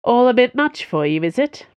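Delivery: smug, teasing challenge; smirking taunt. A narrator's reading. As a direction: needle them with a smirk in the voice. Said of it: "she smirked".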